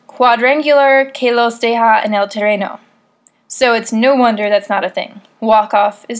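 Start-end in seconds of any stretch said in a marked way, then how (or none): 0.1-2.8 American speaking Spanish with a Spanish accent; self-conscious Spanish accent. Shown as a demonstration. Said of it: "please forgive my Spanish accent".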